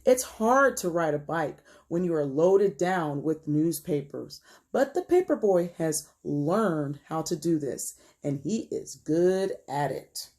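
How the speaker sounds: put-on measured, expressive story narration for children; read-aloud storytelling. A narrator's reading. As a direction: read it to young listeners, stretching key words. Reads picture book aloud.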